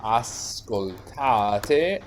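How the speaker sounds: ascoltate drawn out slowly, stress on TA; sounding out conjugation. Shown as a demonstration. Teacher writing out the verb for the class, slow ascoltate. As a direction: stretch ascoltate syllable by syllable. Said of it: "the stress moves for noi ascoltiamo, voi ascoltate".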